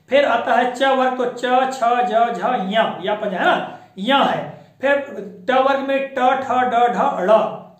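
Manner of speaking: loud clear letter-by-letter recitation; reciting letters. Shown as a demonstration. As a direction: call out each consonant distinctly. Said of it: "Hindi भाषा में पांच वर्ग हैं". (वर्णों को एक-एक करके ज़ोर से स्पष्ट बोलना)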